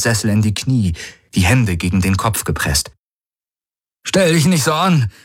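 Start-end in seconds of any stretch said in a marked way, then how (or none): 4.0-5.1 high, sharp call across the bridge. A narrator's reading. Garland calls to Jun to pull himself together, high and sharp. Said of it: "rief Garland".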